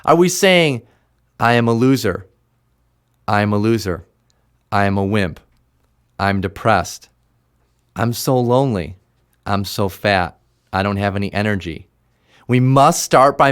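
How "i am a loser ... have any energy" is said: mild mock of a defeated inner voice; defeated self-talk. Shown as a demonstration. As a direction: sound like you've already given up. Acted negative self-talk example.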